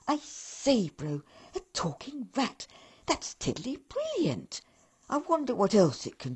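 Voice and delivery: excited elf brother; eager. Acted. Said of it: "his brother said eagerly".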